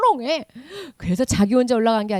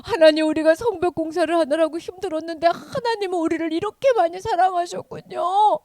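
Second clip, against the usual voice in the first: tearful prayer; 5 semitones higher than usual. Acted. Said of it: "막 이러면서 우는 거야".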